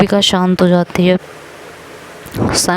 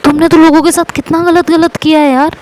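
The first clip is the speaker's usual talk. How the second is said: much higher, mocking taunt; sarcastic jab; 8 semitones higher than usual. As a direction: throw her past wrongs back at her. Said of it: "कहती". (ऊँची आवाज़ में व्यंग्य भरा ताना)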